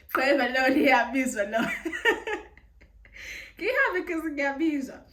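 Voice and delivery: loud, incredulous exclamation; mock outrage. Real, not acted. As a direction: exclaim it in disbelief.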